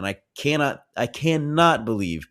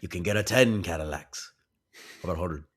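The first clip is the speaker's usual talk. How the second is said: hammed-up singer impression; a famous rock-and-roll singer. Co-host impersonating the film's star for laughs, mock voice of the singer. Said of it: "And I'll do Elvis next".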